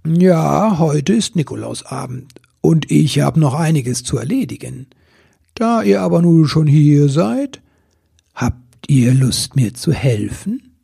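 lightly voiced kindly saint; a hint of a jovial Nikolaus; genial Saint Nicholas. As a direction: invite the helpers along good-naturedly.

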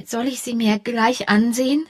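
"soll ich sie mir gleich ansehen" voiced, rising at the end; a touch of fear, full voice after the whisper; anxious. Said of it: "fragte sie ängstlich".

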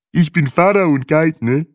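put-on high, loud guide with African accent. Guide answers Breitling in his African accent.

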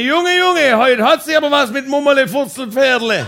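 very high, loud hollering; mock neighbour's shout. Neighbour commenting on the wife's yelling, mock shout. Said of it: "Der Nachbar schrie".

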